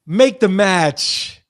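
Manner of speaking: slow, emphatic demand. Real, not acted. Host urging the bookers to make the match, slow demand. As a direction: draw out each word firmly.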